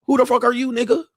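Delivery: high, sharp who-are-you brush-off; dismissive stripper. Retold or imitated. Stripper brushing off the regular who thinks she remembers him. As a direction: toss it off high like she's never seen him. Girl rejects returning guy.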